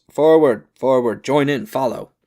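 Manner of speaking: loud, high rallying shout; yelled command. A narrator's reading. Lieutenant yelling at the troops to charge forward. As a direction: call the men forward over the din. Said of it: "He sees us and yells".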